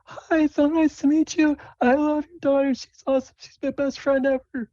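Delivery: very high, loud, bubbly friend; gushing Sable. Acted. Sable meets her best friend's parents, gushing high voice. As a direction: gush in a squeaky falsetto. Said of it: "Sable comes up and says".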